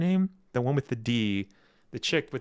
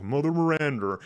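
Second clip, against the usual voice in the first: lightly mimicked villain with put-on American accent; a touch of theatrical American-accented villain; Heisenberg; 5 semitones higher than usual. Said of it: "trying to speak with an American accent".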